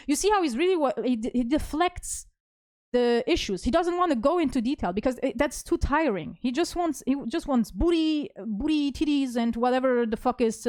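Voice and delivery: exasperated rant to the viewers about her ex. Real, not acted. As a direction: vent your frustration at him. Ranting about his deflection.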